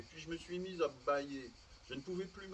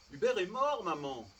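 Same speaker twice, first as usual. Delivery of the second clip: high, loud cry, easing on "maman"; shrill yell; 7 semitones higher, 8 dB louder than usual. A narrator's reading. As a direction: yell it as if to someone deaf. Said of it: "Elle hurlait comme si j'étais sourde, avec une voix aiguë".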